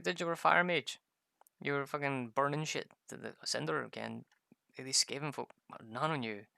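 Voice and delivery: emphatic retort. Retold or imitated. Retold argument with friend.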